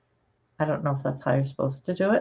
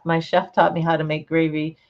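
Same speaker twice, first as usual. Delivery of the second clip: usual speaking voice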